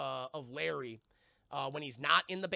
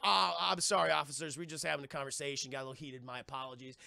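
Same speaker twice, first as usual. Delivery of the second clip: mock apologetic; 3 semitones lower, faster than usual. Robot man excusing a heated talk to officers, mock apologetic.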